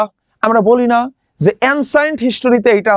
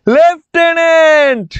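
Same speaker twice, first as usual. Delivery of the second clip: slow, loud, higher "লেফটেন্যান্ট" stretched long; drawn out, emphatic; 6 semitones higher, 4 dB louder, much slower than usual. Shown as a demonstration. Teacher models the word slowly for students. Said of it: "একটু বলো দেখিনি".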